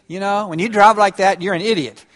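flat blunt put-down; blunt accusation. Shown as a demonstration. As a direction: say it as a plain accusation. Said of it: "less threatening".

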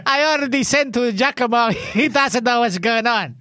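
cheery hammed-up Italian accent; playful Italian-accented English; Valentino Rossi. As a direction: greet them as a comic Italian. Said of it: "There should be one from Rossi".

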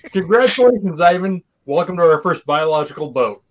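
mock grand welcome; hammed-up cheerful announcer; silly clown. Mock announcement to Russian sailor.

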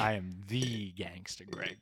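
slow, low, lightly voiced gangster. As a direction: drawl it like a small-time mobster. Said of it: "the gangster voice".

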